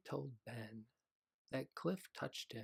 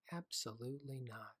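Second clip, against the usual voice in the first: gentle. Acted. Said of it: "Henry's mom answered gently".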